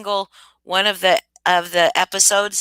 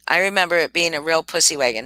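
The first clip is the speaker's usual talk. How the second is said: rattled off faster; quicker repeat; 2 semitones lower, faster than usual. Shown as a demonstration. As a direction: say it again, hurried, as a quick echo.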